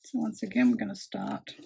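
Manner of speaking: talking around a pin in the mouth; mouth full. Real, not acted. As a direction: speak with a pin between your lips. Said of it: "I've got a pin in my mouth and I'm trying to talk".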